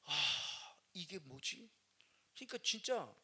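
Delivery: ordinary talk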